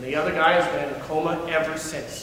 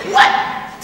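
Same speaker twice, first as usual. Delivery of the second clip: screamed; 7 dB louder than usual. Acted. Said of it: "Teddy screamed".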